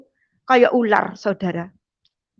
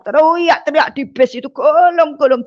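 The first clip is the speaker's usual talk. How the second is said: louder and higher, caught up in the story; mock wailing in an excited retold scene; excited retelling; 4 semitones higher, 4 dB louder than usual. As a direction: relive the uproar on the bus. Retelling the man's loud crying.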